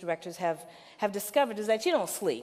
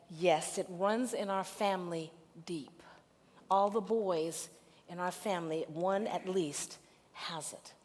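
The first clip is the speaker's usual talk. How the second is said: hushed retelling; 2 semitones lower, 5 dB quieter than usual. Retold or imitated. Sister in tears tells family secret.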